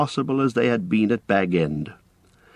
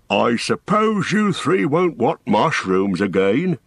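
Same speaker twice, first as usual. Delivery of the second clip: without much hope; 3 semitones higher, slower than usual. A narrator's reading. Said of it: "said Frediga without much hope".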